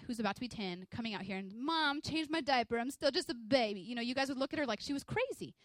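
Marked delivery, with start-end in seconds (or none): 1.5-3.8 lightly voiced whiny little child, slow; a hint of a kid playing baby; mock baby talk. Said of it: "that'd be like Mariah".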